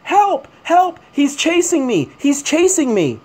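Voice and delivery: imitating the lady screaming to the police; mock scream. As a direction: parody her fake screaming. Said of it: "she starts screaming".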